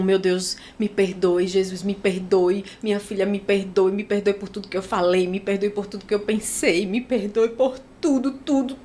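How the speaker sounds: a retold tearful prayer, understated; pleading prayer. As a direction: beg forgiveness from the heart.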